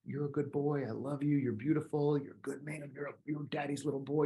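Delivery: put-on softly, a mother soothing her boy; mother quietly reassuring her shy son; soft mom reassurance. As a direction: hush it gently, like comforting a toddler. Mother comforting her little son.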